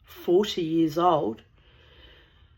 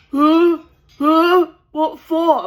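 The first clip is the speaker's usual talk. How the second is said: much higher, louder mock-baffled squawk; baffled Pedro; 11 semitones higher, 13 dB louder, much slower than usual. Pedro asked why he must learn tea, high baffled squeak. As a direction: play the clueless son, baffled and squeaky.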